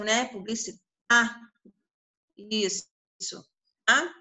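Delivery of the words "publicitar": publicitar with a wide-open final stressed A. Shown as a demonstration. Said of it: "O A tá bem aberto".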